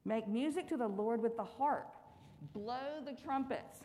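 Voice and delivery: slow, expressive psalm reading; scripture reading. Acted. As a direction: read the psalm slowly with joy. Reads a psalm aloud.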